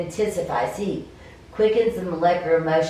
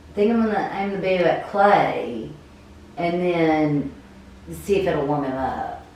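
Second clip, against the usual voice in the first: game master narration; 2 semitones lower than usual. Acted. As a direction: paint the scene, unhurried.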